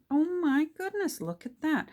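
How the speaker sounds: high, bright gasp of discovery; oh my goodness, genuinely thrilled; real delight at a happy accident; delighted surprise. Real, not acted. Delighted discovery of matching colours.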